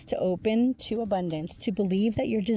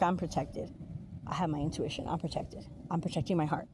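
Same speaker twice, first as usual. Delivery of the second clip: guarded card voice; 2 semitones lower, 5 dB quieter, faster than usual. Retold or imitated. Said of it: "they have the swords up, like".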